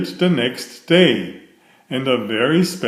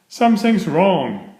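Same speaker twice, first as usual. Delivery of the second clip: alarmed; 6 semitones higher than usual. Acted. Driver spots trouble at cottage.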